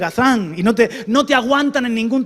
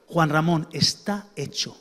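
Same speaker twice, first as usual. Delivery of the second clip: tender divine voice; 5 semitones lower, 4 dB quieter than usual. Acted. Voicing God speaking to him.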